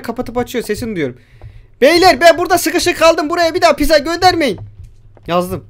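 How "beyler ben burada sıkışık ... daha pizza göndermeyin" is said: loud, high call to the guys; raised, urgent holler; calling for help. Pretend. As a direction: shout a plea to faraway friends. Calling out to friends while trapped.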